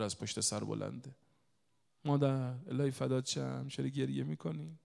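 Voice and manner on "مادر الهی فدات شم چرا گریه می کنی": mild, loving concern; tender retold comforting. Son comforts his crying mother.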